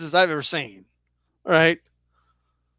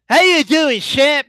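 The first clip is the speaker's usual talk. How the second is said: bad Mike Tyson impression; 5 semitones higher than usual. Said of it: "horrible Mike Tyson impression".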